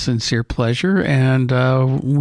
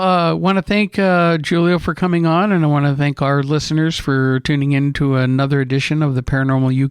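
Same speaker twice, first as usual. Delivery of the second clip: radio voice. Acted. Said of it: "I do use my radio voice for that one".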